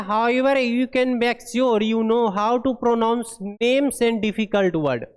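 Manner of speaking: very slow, word-by-word reading of English text; deliberate classroom read-aloud; slow dictation read. Acted. Reads English guideline aloud.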